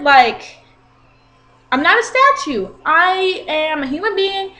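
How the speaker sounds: to the guy who grabbed her shirt, an indignant, emphatic lecture. Retold or imitated. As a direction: lay into him word by word.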